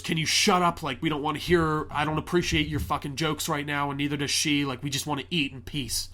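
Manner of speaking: irritated dinner-table outburst; angry retort. Retold or imitated. Man snapping at the guest over his jokes, angry. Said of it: "he just goes".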